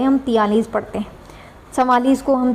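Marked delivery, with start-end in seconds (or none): 0.2-0.7 तैंतालीस said as "तियालीस"; local pronunciation. Retold or imitated. Teacher admits the local way of saying forty-three. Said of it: "तैंतालीस को तैंतालीस नहीं पढ़ते भाई".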